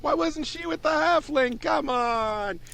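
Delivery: high-pitched jeering onlookers; incredulous crowd. Retold or imitated. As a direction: scoff like jeering spectators. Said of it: "And they're just like".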